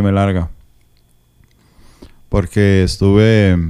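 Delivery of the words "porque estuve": talking while chewing; mouth full. Real, not acted. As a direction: speak through a mouthful of snacks. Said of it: "perdón, que estoy comiendo picaritas".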